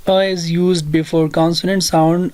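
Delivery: very slow, each word spaced out for students; slow dictation of a rule. Shown as a demonstration. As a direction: spell out the rule slowly so they can write it. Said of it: "آپ لوگوں نے یاد رکھنا ہے".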